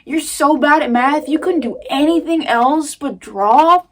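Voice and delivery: mock yourself like a bully would; inner critic mocking. Voicing her harsh inner critic at herself, sneering and loud. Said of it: "it's like".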